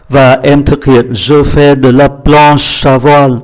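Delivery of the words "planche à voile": planche à voile with planche linked into à; linked words. Shown as a demonstration. Teacher showing learners the liaison, linked words. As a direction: run planche straight into à in planche à voile. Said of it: "Đây chúng ta phải đọc nối".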